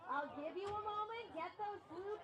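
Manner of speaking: PA announcer hyping the crowd; big welcoming announcer call; booming kids show opener. Acted.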